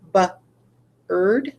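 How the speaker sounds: b-erd said as a stretched, slow bird; wrong reading. Shown as a demonstration. Teacher shows the wrong reading b-erd, slow and drawn out. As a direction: slowly sound out b-erd like the bird. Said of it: "sort of looks like b-erd".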